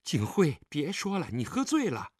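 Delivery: understated anxious plea; trembling voice. Acted. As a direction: plead with him to stop, voice trembling. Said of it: "陈秋月颤抖着声音说道".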